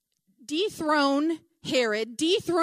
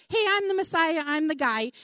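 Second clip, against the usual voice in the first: higher, lightly acted boast; a touch of brash self-promotion; would-be messiah; 4 semitones higher, 3 dB louder than usual. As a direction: announce yourself like an eager claimant. Mimics eager would-be messiahs.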